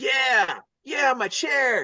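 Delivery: excited and thrilled, high, very drawn out. Retelling talking to Austin about his chair: imitating excited Austin St. John. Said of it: "he's like".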